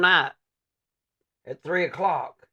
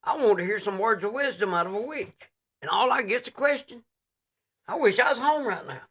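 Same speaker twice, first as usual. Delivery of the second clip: fed-up visitor; 5 semitones higher than usual. Pretend. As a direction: grumble like a let-down pilgrim.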